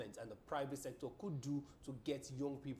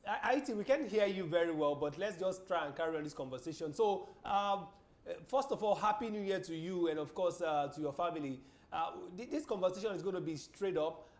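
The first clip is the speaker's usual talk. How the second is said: speaking up loudly; 2 semitones higher, 6 dB louder than usual. Real, not acted. Host speaking up to phone guest.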